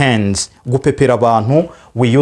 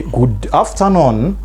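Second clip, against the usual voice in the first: slow rising model; much slower than usual. Shown as a demonstration. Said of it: "Or you say".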